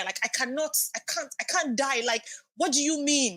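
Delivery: high-pitched, insistent retold disbelief; desperate protest. Mother reliving thoughts of dying after childbirth, desperate.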